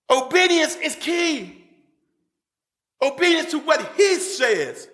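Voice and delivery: slow, drawn-out preacher's delivery; emphatic preaching. Real, not acted. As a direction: stretch the key words like a preacher driving it home. Preaches at full force.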